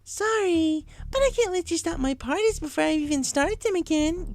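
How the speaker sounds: very high, sweetly menacing; menacing Pinkamena. A narrator's reading. Pinkamena appearing at the door, menacing. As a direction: tease them with a threat.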